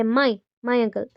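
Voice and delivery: MY set apart and repeated, falling; single out the word "my", slowly; stress on MY. Shown as a demonstration. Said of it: "वो सिर्फ मेरे uncle है".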